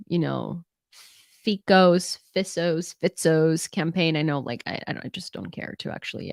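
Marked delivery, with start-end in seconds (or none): 2.3-2.9 "Fisso's" said with an s sound instead of k; a dismissive "Fisso's" said wrong on purpose; deliberate mispronunciation. Shown as a demonstration. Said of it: "I wanna pronounce his name wrong". 3.0-3.7 "Fitzo's" said with a ts sound, slowly; a dismissive, slow "Fitzo's" said wrong on purpose; deliberate mispronunciation. Shown as a demonstration. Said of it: "I wanna pronounce his name wrong".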